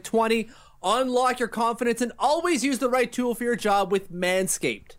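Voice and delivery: hammed-up public announcement delivery; emphatic, deliberate podcast promo read; sponsor ad read. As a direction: sell it like a mock bulletin, punching key words. Host performs sponsor ad read.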